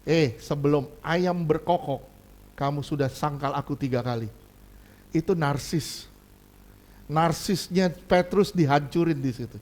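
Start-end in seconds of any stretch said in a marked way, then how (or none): 0.0-4.3 softer, lower quiet warning; gently puncture his pride; calm Jesus. Retold or imitated. Jesus answering Peter, soft quiet rebuke. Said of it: "Tuhan dibilang".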